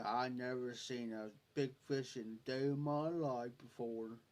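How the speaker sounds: low, softened imitation of an amazed friend; slow talker imitation. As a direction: mimic his drawl, voice dropped. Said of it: "That's how he talked".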